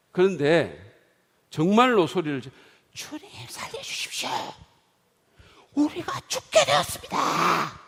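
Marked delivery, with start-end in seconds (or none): 2.9-7.8 desperate cry. Acted. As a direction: cry out for rescue in terror. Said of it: "라고 소리를 질렀을 거예요".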